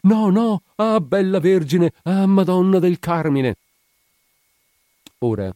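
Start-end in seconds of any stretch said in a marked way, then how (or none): 0.0-3.5 very high, loud wailing plea; high, ringing cry. A narrator's reading. Patient under the surgeon heard from the corridor, high ringing cry. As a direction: cry out to the Virgin, drawn out. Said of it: "alta, squillante".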